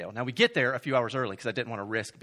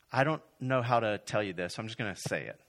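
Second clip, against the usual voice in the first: compassionate; 3 semitones lower than usual. Retold or imitated. Check-in worker reluctant to tell the couple, compassionate. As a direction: break it to them gently. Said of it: "her eyes just have such compassion".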